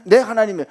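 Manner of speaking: 내 punched loud, falling after; 내 called out loud; stress on 내. Shown as a demonstration. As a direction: hammer 내 home to the crowd. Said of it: "그분과 나와의 관계를 이 한마디로".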